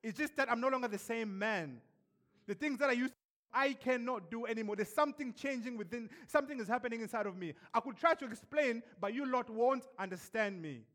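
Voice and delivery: protesting to his mates that he has changed; pleading outburst. Retold or imitated. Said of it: "wanting to scream to them".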